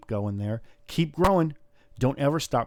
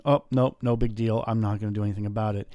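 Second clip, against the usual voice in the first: mock dismissive. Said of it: "being angry and then going".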